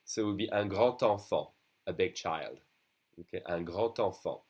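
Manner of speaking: grand enfant with the D said as T; liaison grand enfant. Shown as a demonstration. Teacher shows liaison in un grand enfant. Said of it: "pronounced like a T when you do a liaison".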